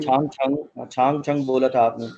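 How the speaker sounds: छांग छंग with a ch at the start; ch pronunciation. Shown as a demonstration. Teacher spells out the brand CHANG for students, ch sound. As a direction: say छांग with a firm ch. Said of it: "सीएच की आवाज़ क्या है".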